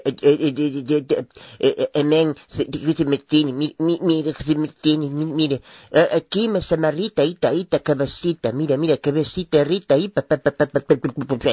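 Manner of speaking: mock babble of stuttered syllables; mocking an evangelical's tongues with stammered nonsense; mocking speaking in tongues. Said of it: "es unas lenguas que hablas tú".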